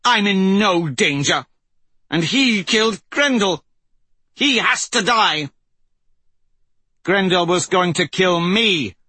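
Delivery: put-on high, heated young woman pleading. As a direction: argue hotly, voice pitched high. Aryan arguing with the prince.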